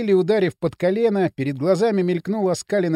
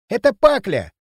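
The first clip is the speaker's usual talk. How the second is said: out-of-breath urgent news; urgent panting report; 3 semitones higher, 4 dB louder than usual. A narrator's reading. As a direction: pant it out urgently. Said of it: "задыхаясь, выпалил". (запыхавшись)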